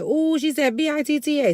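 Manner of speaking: high-pitched imitation of a little kid; mock little kid. Little kid reacting to the B word, mock high voice. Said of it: "he used to be like".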